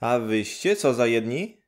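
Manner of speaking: suspicious. Acted. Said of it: "spytała podejrzliwie".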